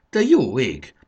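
high, loud shocked exclamation; shocked cry over a sick friend; alarmed gasp. A narrator's reading. Fanni claps hands in alarm.

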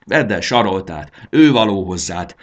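put-on fed-up girl scolding the dragon; annoyed scolding. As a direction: snap at him in mild annoyance. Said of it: "mérgelődött Bori".

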